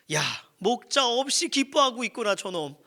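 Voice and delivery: loud, high-pitched telling-off in jest; hammed-up indignant call-out; mock reproach. Shepherd catching sheep rejoicing without him, mock reproach.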